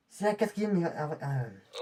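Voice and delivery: stammering. Acted. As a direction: stumble over the words and trail off. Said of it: "Oula, tu bégayes".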